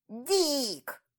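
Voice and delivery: lightly mimicking, teasing boy; a hint of a cheeky imitation; mocking boy. A narrator's reading. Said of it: "передразнил мальчишка". (передразнивая)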